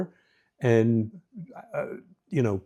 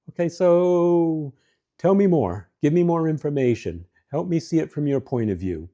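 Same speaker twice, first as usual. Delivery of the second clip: curious questions; 3 semitones higher than usual. Shown as a demonstration. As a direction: invite her to tell you more. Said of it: "kind of curious questions".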